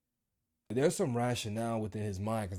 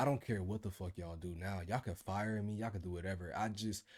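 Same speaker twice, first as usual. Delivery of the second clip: fed up; 2 semitones lower, 6 dB quieter than usual. Retold or imitated. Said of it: "I was like".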